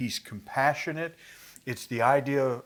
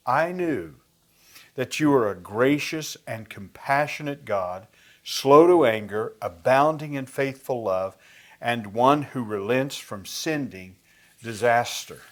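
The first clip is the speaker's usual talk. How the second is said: stated with anger. Retold or imitated. Jonah complaining to God, reading with mild anger. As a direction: grumble the praise as if it were a complaint. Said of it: "This very happy verse is stated with anger".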